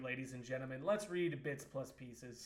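announcer-style intro. Acted. Announcing the start of a read.

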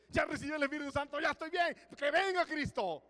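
high, loud, fast mock voice of a smug believer; mocking eager believer. Preacher mocking complacent believers, high eager voice. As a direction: lampoon the one who thinks he has it all.

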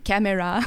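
"camera" in three full syllables, French style; "camera" with every vowel sounded; French-accented camera. Shown as a demonstration. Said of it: "it's so funny how you say".

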